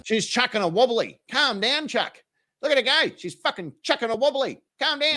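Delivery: high, loud mocking commentary. Mocking the woman yelling at him, high and loud. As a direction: egg her on in a high, loud jeer.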